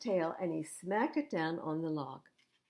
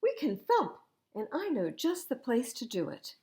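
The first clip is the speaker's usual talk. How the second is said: high, louder keen idea; eager suggestion; 5 semitones higher, 3 dB louder than usual. Acted. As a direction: pitch the game with excitement. Thumper proposes thumping.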